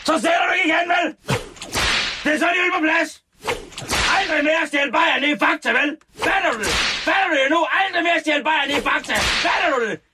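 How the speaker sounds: high, strained shouted telling-off; mock angry scolding. Host acting out scolding of beer thief in supermarket, high furious mock shout. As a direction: yell the warning in hammed-up fury.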